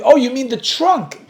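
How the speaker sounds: high, slow realization; dawning surprise. Retold or imitated. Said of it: "So I said".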